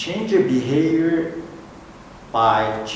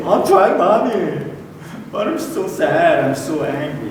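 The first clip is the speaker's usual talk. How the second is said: put-on high, childlike plea; child pleading; 4 semitones higher than usual. Preacher mimicking a crying child answering mommy. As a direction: plead like a small upset kid. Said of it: "Then kids will say".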